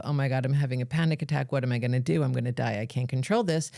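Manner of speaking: mock panic. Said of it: "going down this spiral of".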